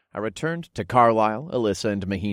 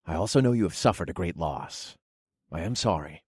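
gentle consoling; 2 semitones lower, 5 dB quieter than usual. Acted. God consoles grieving widow.

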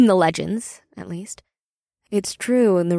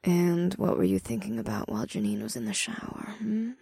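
smirking tease; 2 semitones lower, 4 dB quieter, faster than usual. Acted. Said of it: "Ada smirked".

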